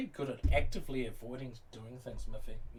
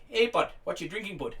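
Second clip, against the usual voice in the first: higher-pitched Canadian "hey, bud" greeting; mock Canadian accent; 5 semitones higher, 4 dB louder than usual. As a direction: put on a chummy Canadian accent. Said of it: "it didn't really sound like".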